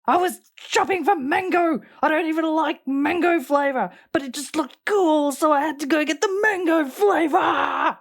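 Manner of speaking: high-pitched mock whine of a complainer; mocking imitation. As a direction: mimic her in a high, whiny sing-song. Mockingly mimics the clip woman's whining.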